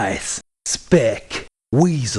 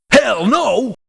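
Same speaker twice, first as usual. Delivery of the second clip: gruff refusal; 7 semitones higher than usual. Acted. Gruff merc refusing to join.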